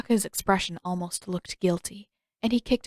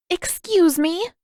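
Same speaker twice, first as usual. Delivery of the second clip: slow, high, louder excuse me; offended disbelief; 10 semitones higher, 4 dB louder, slower than usual. Acted. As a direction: stop him cold, affronted. Katara offended by sexist remark.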